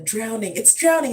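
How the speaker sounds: imitating a terrified little boy; scared high cry; panicked child. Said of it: "He's like".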